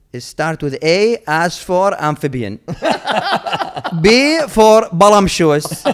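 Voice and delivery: spelling it out through laughter; can't keep a straight face; laughing. Retold or imitated. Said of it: "start making these crazy words".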